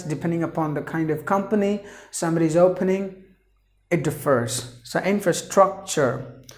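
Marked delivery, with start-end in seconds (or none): 5.0-6.4 infrastructure with the weight on IN; teacher modelling infrastructure, stress at the start. Shown as a demonstration. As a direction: lean on the first syllable of infrastructure. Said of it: "four syllables you have to stress in the beginning".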